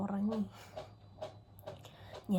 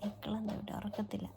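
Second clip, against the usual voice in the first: whisper; 8 dB quieter than usual. Real, not acted. Mother whispering beside her sleeping baby. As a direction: breathe the words without voice.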